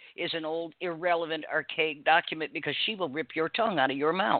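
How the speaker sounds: normal talking voice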